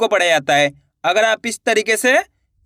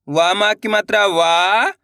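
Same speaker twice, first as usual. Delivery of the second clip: slow spelling; slower than usual. Shown as a demonstration. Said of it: "अपन एक एक करके शब्दों को पढ़ेंगे".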